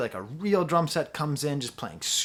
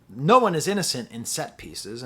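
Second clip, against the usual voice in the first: a hint of match commentary, louder; sports commentator; 5 dB louder than usual. World Cup commentator heard over the music, emphatic call. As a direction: punch it like a commentator. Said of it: "the commentator said".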